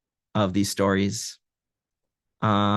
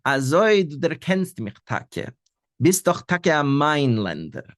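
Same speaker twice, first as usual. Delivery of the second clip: put-on girl caught out, laughing; 4 semitones higher, 3 dB louder, slower than usual. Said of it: "she laughs".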